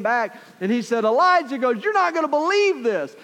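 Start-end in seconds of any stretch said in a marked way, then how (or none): 1.0-1.6 high, loud excited call; excited servant calling. Acted. Servant calls out to Elijah. 1.8-3.1 high, loud excited call; excited servant calling. Acted. Servant bursts with news.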